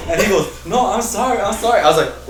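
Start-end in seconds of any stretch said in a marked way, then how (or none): 0.7-1.8 put-on high-pitched begging kid; mock panicked apology. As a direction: plead sorry in a raised kid's voice. Scared kid apologising, acted.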